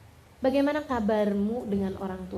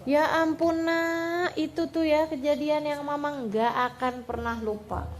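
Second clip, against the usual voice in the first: mildly exclaiming mother, pitched up; voiced mother; 4 semitones higher than usual. Mother answering her child about lost money, mildly exclaiming. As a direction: retell a mother's heartfelt recollection. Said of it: "Mamahnya bilang kayak begini".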